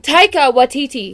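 Taika Waititi said carefully, each syllable clear; careful pronunciation. Shown as a demonstration. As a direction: sound out Taika Waititi properly. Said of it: "How would you pronounce the person's name?".

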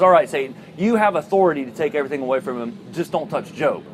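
lightly voiced deity granting limited permission; God. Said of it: "And God says".

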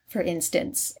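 ordinary delivery

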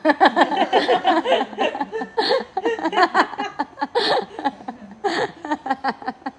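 high, drawn-out real laughter; long laugh. Real, not acted. Laughing at her son's prank, long amused laughter. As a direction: let the laugh roll on.

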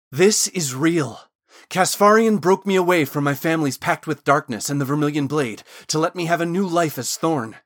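insistent appeal to be believed; pleading. A narrator's reading. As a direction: plead with her, building in volume and pitch. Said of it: "Thorn was now pleading".

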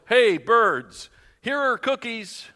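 high, loud call to the birds; storybook holler; loud shout. A narrator's reading. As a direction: shout it out as if across a yard. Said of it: "shouted in a loud voice".

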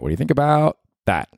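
excited. Shown as a demonstration. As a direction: pitch it up with eager interest.

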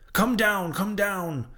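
high, urgent call that fades at the end; urgent yell. A narrator's reading. Seaman calling Daggoo down, urgent high yell. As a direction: warn him down off the head. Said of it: "yelled the seaman to Daggoo".

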